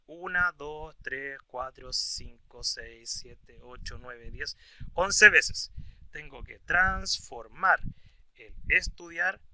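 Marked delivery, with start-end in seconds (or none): 0.0-5.7 slow counting. Shown as a demonstration. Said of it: "transformar el verbo estudiar".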